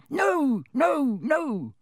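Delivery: high, loud squeak. A narrator's reading. Elf refusing Harry's plea, high squeak. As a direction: squeak the nos in panic. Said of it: "squeaked Dobby".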